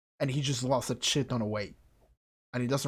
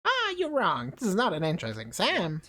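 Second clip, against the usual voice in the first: high, emphatic put-on voice; contradicting character; 7 semitones higher than usual. Character rejects the exam idea, emphatic. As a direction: object sharply in a raised voice.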